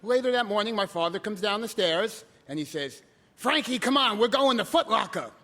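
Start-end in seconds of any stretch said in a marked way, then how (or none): 3.3-5.3 louder, higher hurrying dad's call. Retold or imitated. Father calling his son to Foot Locker, loud call. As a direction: call your son to come along, loud and brisk.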